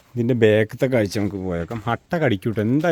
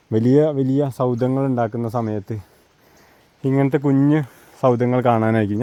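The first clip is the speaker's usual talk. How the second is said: out of breath. Real, not acted. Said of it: "ഞാൻ കിതയ്ക്കുന്നുണ്ട് കേട്ടോ".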